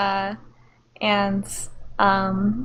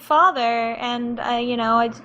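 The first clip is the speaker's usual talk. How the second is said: much higher, slow flustered stammer; confused stepmom; 6 semitones higher than usual. Acted. Amanda answers the teen's outburst, higher, slow and flustered. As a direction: fumble for words, thrown off. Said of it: "really confused".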